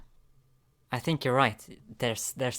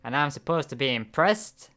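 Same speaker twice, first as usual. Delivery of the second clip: loud, much higher shout of shock, then sneering; startled scornful character; 5 semitones higher, 11 dB louder than usual. Acted. Character shouts at the talking stranger, loud and scornful. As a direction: yell at the stranger, then mock him.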